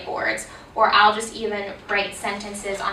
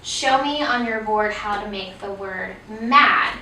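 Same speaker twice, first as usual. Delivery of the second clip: teacher prompt demo. Shown as a demonstration. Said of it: "if I said".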